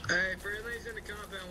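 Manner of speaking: shouting. Real, not acted. Warning friendlies in the compound.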